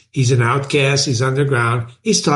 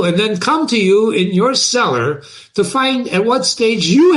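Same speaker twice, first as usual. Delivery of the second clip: animated, pitch-lifted read-aloud; dramatic reading; 3 semitones higher than usual. A narrator's reading. Underground man answers his imagined accusers, dramatic reading. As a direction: read it as a challenge to the listener. Reads novel aloud to class.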